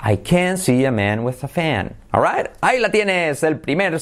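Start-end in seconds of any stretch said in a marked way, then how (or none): 0.0-1.9 connected speech, vowels close to "eh"; said quickly. Shown as a demonstration. Teacher showing the sentence at speed, said quickly. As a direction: run CAN, MAN, FAN together lightly. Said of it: "Si lo dices muy rápido".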